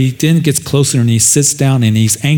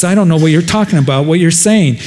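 flustered denial; 4 semitones higher than usual. Acted. Peter denying, flustered.

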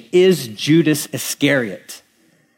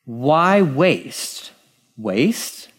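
incredulous; much slower than usual. Real, not acted. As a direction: repeat it in disbelief. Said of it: "I'm sorry, what?".

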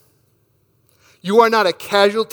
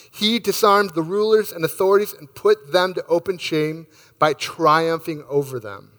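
scripture reading. Acted. Pastor reading scripture to the congregation, reverent and measured. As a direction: read the verses with reverent care. Pastor reads Colossians aloud.

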